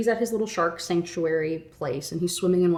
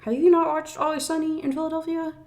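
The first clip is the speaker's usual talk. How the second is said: high, pushy disbelief at her; incredulous rant; 3 semitones higher than usual. Real, not acted. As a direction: scold the heroine like a friend. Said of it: "And I'm just like".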